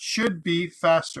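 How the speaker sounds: heavy stress placed on the word should. Saying each incremental build should be faster, strong stress on should. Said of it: "I'm going to put emphasis on".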